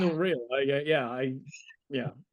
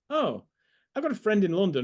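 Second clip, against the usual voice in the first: higher-pitched mock enthusiasm; imitated eager stranger; 4 semitones higher than usual. Imitating Americans hearing where he's from, mock eager. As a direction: pipe up like a keen new acquaintance. Mimicking Americans reacting to his hometown.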